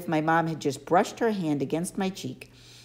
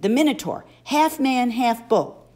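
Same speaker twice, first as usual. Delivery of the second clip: "The Minotaur" said firmly, less loud, falling; insistent naming; 7 semitones higher, 5 dB louder than usual. A narrator's reading. Boy presses Grover about the monster, firm. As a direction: state "The Minotaur" flatly and insistently. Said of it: "I demanded".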